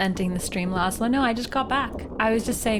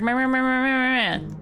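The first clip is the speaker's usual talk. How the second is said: mocking meh; 3 semitones higher than usual. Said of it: "He's like".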